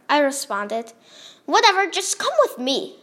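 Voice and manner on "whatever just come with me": higher-pitched impatient call; half-raised yell, pitched up; mild yell. A narrator's reading. Bob orders the newcomer along, mildly yelled. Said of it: "Bob yelled".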